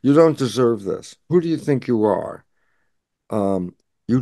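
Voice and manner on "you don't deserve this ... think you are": a hint of a scolding parent, near plain; lightly voiced parent. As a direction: say it almost plainly, just quoting. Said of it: "you got those things like".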